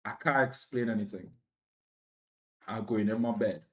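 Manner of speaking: low, soft and worn out; too wiped out to explain anything; exhausted mumble. Retold or imitated. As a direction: barely get the words out before bed. Exhausted, going to bed.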